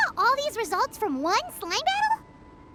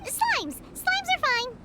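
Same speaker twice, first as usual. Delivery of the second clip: quick, higher eager protest; hasty protest; 6 semitones higher than usual. Acted. Paimon hurriedly turns down the harder challenge. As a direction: rush to accept the easier option. Hastily refusing the six Oceanids.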